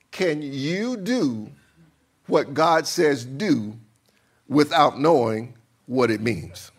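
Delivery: slow, spaced-out phrases for emphasis. Shown as a demonstration. Preacher repeating his question to the congregation, slow. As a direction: say it slowly, phrase by phrase. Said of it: "No, let me say it slow".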